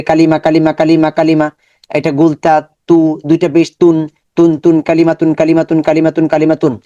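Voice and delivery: syllables said apart, then joined into কালি repeated evenly; syllable blending drill. Shown as a demonstration. Teacher shows students how to join syllables. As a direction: build কা and লি into কালি for the class. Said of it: "অনেক বেশি বাসায় practice করবেন".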